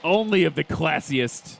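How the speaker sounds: put-on playful posh British announcer accent; lightly done British accent, not super good. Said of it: "That's the best British accent I can do".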